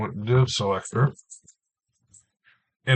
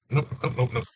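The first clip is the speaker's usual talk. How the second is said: talking while chewing gum; words around a wad of gum; 4 dB quieter, faster than usual. Real, not acted. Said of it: "Can't talk and chew gum at the same time".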